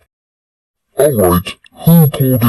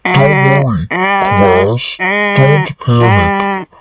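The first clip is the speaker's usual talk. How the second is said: hammed-up calm teacher voice; fake calm. Teacher calming class in alarm.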